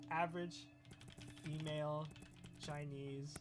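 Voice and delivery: cool down while reading it out; reined-in heat. Real, not acted. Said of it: "I'm getting a little bit heated".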